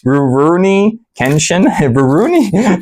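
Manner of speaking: Rurouni said with R's slurred like Scooby-Doo; says w for r. Real, not acted. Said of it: "I can't say the R's. I sound like Scooby-Doo".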